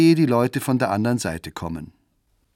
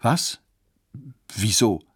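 astonished. Acted. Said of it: "fragt Johanna erstaunt zurück".

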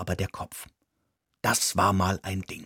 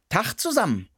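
high little mouse greeting; 10 semitones higher than usual. Acted. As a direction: chirp it into the silence. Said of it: "sagte ich in die Stille".

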